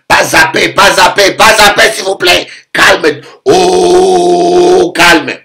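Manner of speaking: a scared husband begging his angry wife; mock pleading. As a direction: plead with her to calm down. Husband begs furious wife.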